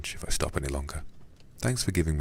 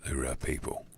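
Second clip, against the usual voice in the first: put-on Cockney accent; 6 dB quieter than usual. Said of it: "a Cockney voice for this guy".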